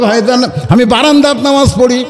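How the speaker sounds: high-pitched imitated tearful pleading; tearful plea. Shepherd excusing himself to the companion, mock-tearful. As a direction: plead as if near tears, lightly acted. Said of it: "চোখের পানি বের করে বলতেছে".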